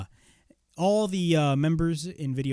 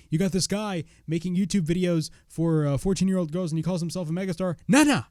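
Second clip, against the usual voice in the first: mocking wrestler roast, higher; L A Knight; 4 semitones higher than usual. Fan retelling the roast of Logan Paul, mocking. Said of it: "he was like".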